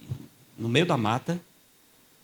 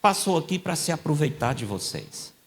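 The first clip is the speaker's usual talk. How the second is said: mock accuser; 8 semitones higher than usual. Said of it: "ficaram dizendo".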